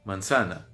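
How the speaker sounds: Manzana said the Spanish way, man-SA-na. Shown as a demonstration. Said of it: "Em espanhol é manzana".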